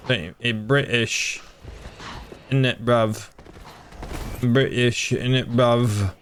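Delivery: slow, hammed-up British slang voice; mock British accent. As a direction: put on a lazy, teasing British accent. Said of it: "He's British".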